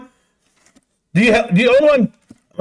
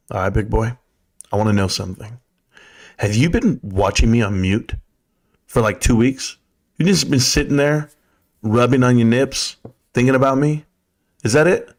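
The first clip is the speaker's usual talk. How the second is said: mock sexy voice; 5 semitones lower than usual. Mock seductive voice to Hector.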